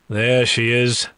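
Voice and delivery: slow, wry quip; quipping. Acted. Demon enjoying the woman's outburst, quipping. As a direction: draw it out teasingly. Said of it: "I quip".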